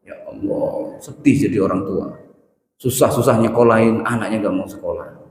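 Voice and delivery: whispered sad sigh; mock lament. Preacher voicing a tired parent's sorrow about a truant son. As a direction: breathe it out like a weary parent.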